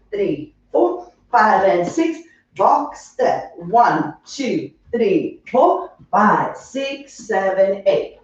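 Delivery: counting the beat, steady and sung-through; rhythmic dance counting. Acted. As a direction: chant the counts in time with the steps. Instructor counting dance steps.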